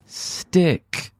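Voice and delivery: a high, drawn-out stick; sticky sound effect. A narrator's reading. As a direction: make the word sound like it glues.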